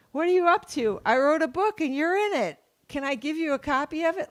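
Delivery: high, softened self-talk; small high voice, replaying what should have been said; mock rueful rehearsal. Fan lying in bed replaying the conversation, high soft voice.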